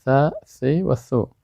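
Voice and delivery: th plus three different vowels, each set apart; three vowelled forms of ث. Shown as a demonstration. Teacher showing the three states of ث, slow syllable demonstration. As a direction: slowly say ثا، ثی و ثو with a, i, u after th. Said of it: "سه حالت است".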